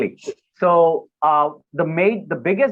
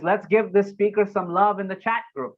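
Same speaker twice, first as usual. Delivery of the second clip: lifted, upbeat host prompt; directing the audience; 4 semitones higher than usual. Shown as a demonstration. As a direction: cue the online crowd to cheer the speaker. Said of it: "it's my voice directing the audience".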